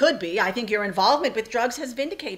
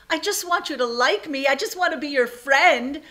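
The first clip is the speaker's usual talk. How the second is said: higher-pitched, earnest appeal; pleading; 5 semitones higher than usual. Acted. Mother begging her estranged daughter to like her, pleading.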